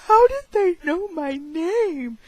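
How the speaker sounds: high, lightly voiced puzzled teen; a hint of a baffled squeak; bewildered whine. Girl asking her mom, lightly high and baffled. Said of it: "And I'm like".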